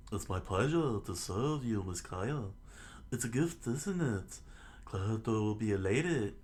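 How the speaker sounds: lightly voiced British butler; polite put-on British lilt; fake British voice. Butler Mary politely serves the lady Kaya, fake British voice. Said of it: "I'll give him fake British voice".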